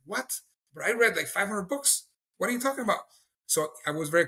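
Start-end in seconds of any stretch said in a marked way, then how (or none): 0.0-3.1 shocked disbelief. Retold or imitated. Retold shock at Bible-only message.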